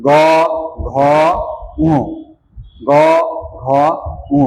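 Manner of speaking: গ, ঘ, ঙ one by one, throat buzzing; voiced গ, ঘ, ঙ. Shown as a demonstration. Teacher has students feel the vibration, voiced গ, ঘ, ঙ. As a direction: sound out গ, ঘ, ঙ separately with full voice. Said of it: "গলাটা বেশি".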